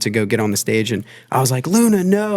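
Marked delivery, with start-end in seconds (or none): 1.7-2.4 retold panicky cry, much higher; freaked-out yell. Bandleader calling the dog off the stage, freaked out. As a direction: re-enact calling a dog off, voice jumping up. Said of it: "And I freaked out".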